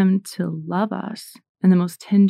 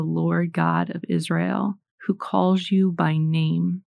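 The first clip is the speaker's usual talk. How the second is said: scripture reading. Acted. Scripture read aloud.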